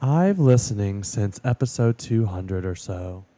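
put-on slow, dull reviewer accent; drawn-out mock accent reading; boring put-on accent. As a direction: drone through it slowly in a silly accent. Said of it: "most boring asinine accent ever".

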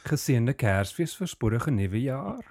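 slow Afrikaans holiday wishes; Afrikaans greeting. Real, not acted. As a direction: say it in Afrikaans, unhurried. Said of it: "That was Afrikaans for".

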